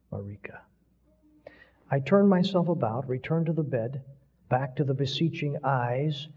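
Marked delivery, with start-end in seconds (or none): 0.1-0.6 faint dying whisper; a last breath of a name. Acted. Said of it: "the whispering of the dying man".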